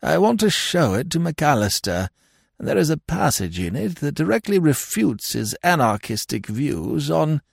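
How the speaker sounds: put-on high-pitched, dithering old lord; absent-minded lord. Lord asking Connie about his mislaid book, absent-minded. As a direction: play a vague lord, pitched well up.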